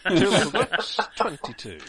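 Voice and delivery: bingo caller. Pretend. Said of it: "what an amusing bingo caller you'd make".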